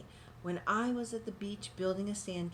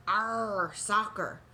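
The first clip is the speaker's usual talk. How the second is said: pirate yell; 4 dB louder, much slower than usual. A narrator's reading.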